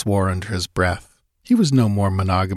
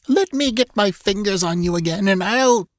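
high-pitched, venomous threat; gasped fury; 11 semitones higher than usual. A narrator's reading. Wounded captor threatens her escaped prisoner, gasping with fury. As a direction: threaten furiously, as if gasping in pain. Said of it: "gasped Thalis".

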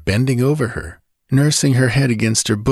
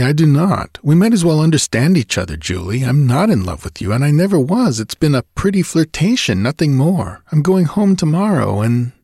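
higher and louder, brusque rush; angry rejection; 6 semitones higher, 4 dB louder than usual. Acted. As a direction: lay it out coldly and angrily. Angry man rejecting lover.

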